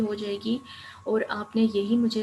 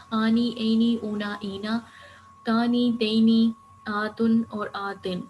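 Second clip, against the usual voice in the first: loud drill; 5 dB louder than usual. Shown as a demonstration. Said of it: "teacher lists ending combinations".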